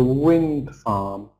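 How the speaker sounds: "wind farm" with the weight on WIND; compound noun stress. Shown as a demonstration. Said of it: "It tells us what kind of farm".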